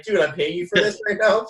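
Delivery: laughing through a joking complaint. Retold or imitated. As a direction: chuckle while you tease him about paying. Jokes to the healer, laughing.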